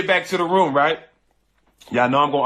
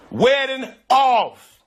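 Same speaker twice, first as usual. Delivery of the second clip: drawn out; 9 semitones higher, much slower than usual. Real, not acted. Announcing the wedding is cancelled.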